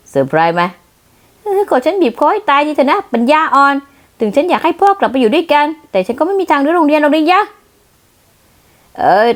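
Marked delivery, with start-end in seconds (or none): 1.4-7.4 exasperated scolding. Acted.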